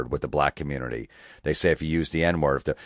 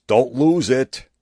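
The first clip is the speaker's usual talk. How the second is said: mock sage advice; 8 semitones higher, 7 dB louder, slower than usual. Quoting the commenter.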